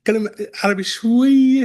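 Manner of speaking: a light embarrassed laugh through the words; laughing apology. Real, not acted. Apologising for her limited Arabic.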